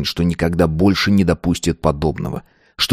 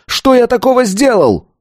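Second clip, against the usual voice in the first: high, pleading cries; desperate outcry; 11 semitones higher than usual. A narrator's reading. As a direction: protest to the master, voice climbing sharply. Pupil's desperate outcry at master. (отчаянный крик, всё выше)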